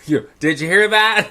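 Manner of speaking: loud, high imitation of a kid; calling out. Granddaughter checking the old lady heard, calling out. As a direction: pipe up loudly to stir trouble.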